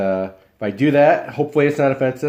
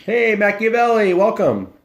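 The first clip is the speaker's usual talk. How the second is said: excited greeting; 11 semitones higher, 4 dB louder than usual. Real, not acted. Greeting a new viewer.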